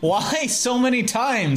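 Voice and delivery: high character voice. Acted. Voicing game character, high slow.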